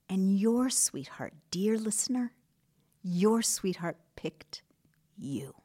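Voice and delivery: tender reassurance. Real, not acted. Host telling the listener they were chosen, tender.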